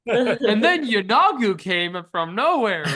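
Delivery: loud, high play-battle narration; kid playing with figures. Game master as a kid throwing figures together, excited play voice. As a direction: crash the toys in with a big pretend roar.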